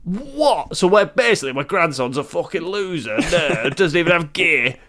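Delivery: lightly voiced London geezer, mock disgust; scoffing London bloke, barely put on; London geezer accent. Dead granddad mocking his grandson, light London accent. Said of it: "something took me over there".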